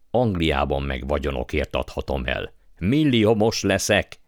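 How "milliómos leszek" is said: higher, slowed exultant boast; gloating exclamation. A narrator's reading. Uncle dreaming of riches, gloating. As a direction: savour it in a raised, triumphant voice.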